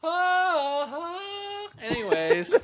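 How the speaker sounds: high, breathless laughter; laughing hard. Real, not acted. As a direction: crack up laughing. Laughing fit after joke.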